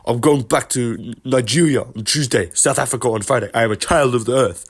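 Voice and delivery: put-on Izzy voice, grandiose; lightly voiced lofty Izzy; Izzy impression. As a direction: proclaim it like a child of the earth. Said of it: "he's like".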